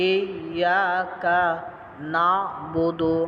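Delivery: slow, drawn-out Quranic recitation. Shown as a demonstration. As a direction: recite it slowly for the students. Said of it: "teacher demonstrates Quran recitation". (ধীরে তিলাওয়াত)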